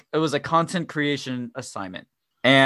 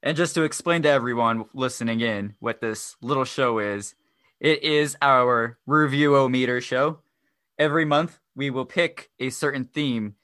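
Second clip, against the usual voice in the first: stiff half-robot monotone. Real, not acted. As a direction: read it like a robot. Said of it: "Why do I sound like a robot?".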